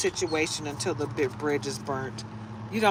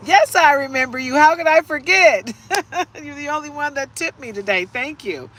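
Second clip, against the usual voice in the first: put-on voice; 9 semitones higher, 9 dB louder than usual. Sudden put-on voice.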